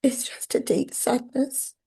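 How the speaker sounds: sad, hushed, breathless; whispered sadness. Real, not acted. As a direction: barely voice the sadness. Emotional in therapy session.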